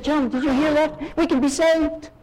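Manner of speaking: put-on a young man suddenly hearing good news; excited. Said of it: "He was excited".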